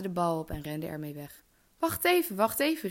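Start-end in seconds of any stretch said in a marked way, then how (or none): 1.8-2.9 high, urgent call after someone. A narrator's reading. Frog begging the runaway princess to wait, calling out. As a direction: call out to stop someone leaving, raised voice. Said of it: "riep de kikker".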